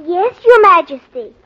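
dry mock-formal reply; sarcastically polite; sarcastic. Real, not acted. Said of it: "Never mind the sarcasm".

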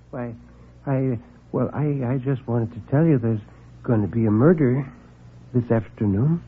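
a meek man afraid to speak up; timid little man. Acted. Meek visitor nervously announces a murder.

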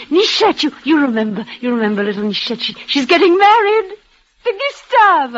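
rising with delight; bursting to share happy news; excited. Acted. Dying woman tells her lover the happy news, excitedly.

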